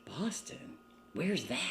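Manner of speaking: put-on small whisper, puzzled child; soft puzzled kid asking; whispered child's question. Girl of eight asking parents, whispered and puzzled. Child asks about moving.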